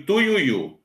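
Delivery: "tuiuiu" said slowly, each vowel clear; teacher gives "tuiuiu" slowly as the model word; slow example word. Shown as a demonstration. Teacher shows students the example word, slowly. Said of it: "eu separo em tui, ui, u".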